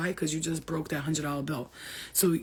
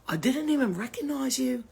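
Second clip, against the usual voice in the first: high, mock English accent; accidental English accent; 8 semitones higher than usual. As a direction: gush in a put-on English accent. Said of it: "where the English accent came from".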